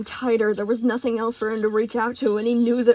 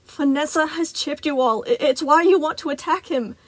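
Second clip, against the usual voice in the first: yelled; 5 semitones higher, 4 dB louder than usual. Acted. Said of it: "Freddy yelled".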